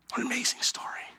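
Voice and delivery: hushed, reverent whisper; preacher whispering in awe at the story's end; awed whisper. Real, not acted. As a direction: breathe it out in wonder. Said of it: "awed whisper after story".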